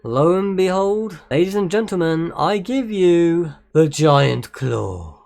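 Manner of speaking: slow, grand showman unveiling; florid victorian lecturer. Pretend. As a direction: present it like a ringmaster.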